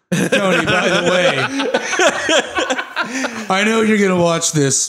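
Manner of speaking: lightly voiced Howard Stark, laughing through; father's message.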